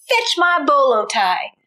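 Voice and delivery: a touch of a spoiled brother's demand; bossy order. Acted. Stepbrother demanding his bolo tie, mildly bossy. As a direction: order it lazily. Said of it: "shouted Dwayne".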